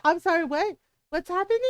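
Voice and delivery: high, bewildered clerk; taken aback. Retold or imitated. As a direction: imitate a stunned clerk, voice jumping up. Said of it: "there was, like, this dead silence".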